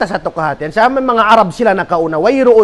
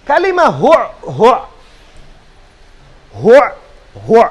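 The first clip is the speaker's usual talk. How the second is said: demonstrating a harsh sound. Shown as a demonstration. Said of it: "Diungog nin kabtangan hu".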